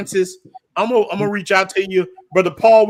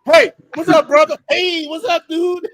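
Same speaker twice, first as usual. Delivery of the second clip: higher, louder cool-guy hello, pitch keeps climbing; soul brother greeting; 8 semitones higher, 3 dB louder than usual. Retold or imitated. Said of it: "they got that Soul Brother glide".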